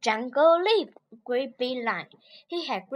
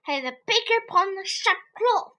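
higher, light rabbit voice; 6 semitones higher than usual. Acted. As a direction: pipe up brightly. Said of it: "said clever rabbit".

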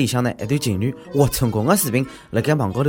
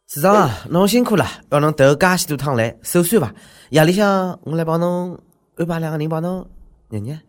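butter up the boss; fawning flatterer; 3 semitones higher than usual. Acted. Voices a fawning subordinate.

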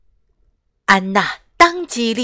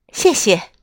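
smiling. Acted. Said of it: "艾莎微笑着说".

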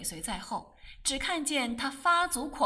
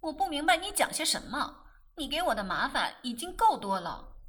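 cold; 3 semitones higher, 3 dB louder than usual. Acted. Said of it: "玫瑰冷冷地说".

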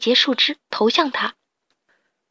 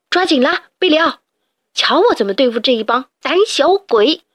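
rally your friend; bold call; 3 semitones higher than usual. Acted. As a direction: heroic challenge. Hero calls out boldly.

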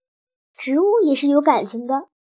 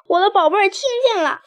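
joyful cheer; 5 semitones higher, faster than usual. Acted. Running and cheering wildly.

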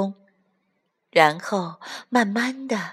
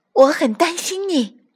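stork voice; 9 semitones higher than usual. Acted. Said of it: "伊莎贝拉说".

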